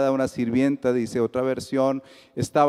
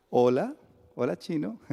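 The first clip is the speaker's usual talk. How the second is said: put-on Bogotá accent; 2 semitones higher than usual. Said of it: "Aquí hay un bogotano".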